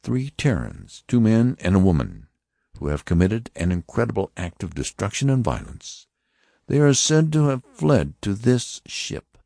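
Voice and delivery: high, stern voice of an alien officer; Martian officer. Acted. Martian officer warning the passengers, stern and high. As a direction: announce it like a cold interrogator.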